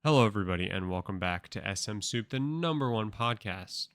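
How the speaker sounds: punchy opening, hitting the first word loud; podcast host intro. Acted. Host welcoming listeners back to the show, announcer delivery.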